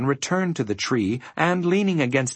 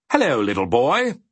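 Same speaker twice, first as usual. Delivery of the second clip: amiable; 3 dB louder than usual. A narrator's reading. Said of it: "amiably shaking Milo by".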